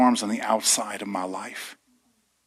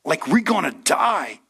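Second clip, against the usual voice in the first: pleading cry; 5 semitones higher, slower than usual. Retold or imitated. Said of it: "led the disciples to cry out".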